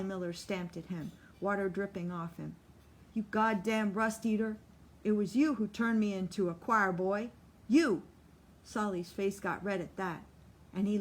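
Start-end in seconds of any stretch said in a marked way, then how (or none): 3.1-8.0 building louder to a shouted You; furious. Acted. Solly shouting blame at Lute, louder and louder. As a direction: hurl the blame, rising to a yell.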